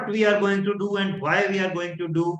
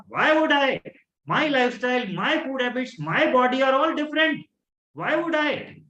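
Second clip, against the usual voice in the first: confident; 5 semitones higher than usual. Shown as a demonstration. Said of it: "I have an empowering thought".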